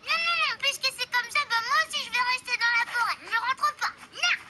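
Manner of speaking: fast stubborn refusal; defiant outburst. Acted. Defiant protest to stay.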